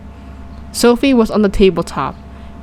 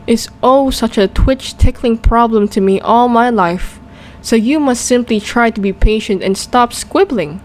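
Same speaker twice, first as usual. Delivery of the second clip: lightly voiced gentle giant, rustic; a kind old giant muddling his words; friendly giant voice; 3 semitones higher than usual. BFG explains his words.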